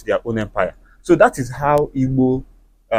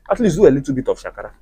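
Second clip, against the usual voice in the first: fast, rushed advice; quick first take; much faster than usual. Shown as a demonstration. Advising single ladies, said fast and light. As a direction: tosses the line off quickly. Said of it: "I didn't say you should do it so much".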